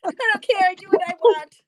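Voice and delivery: high, loud playful defiance; mock defiance. Guest joking about her cat allergy, mock defiance. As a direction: belt it out like a gleefully stubborn rebel.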